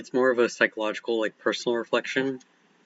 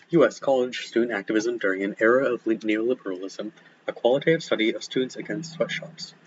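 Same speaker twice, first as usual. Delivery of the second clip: eating an apple. Real, not acted. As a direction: mouth full of apple. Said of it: "Sorry, I'm eating an apple".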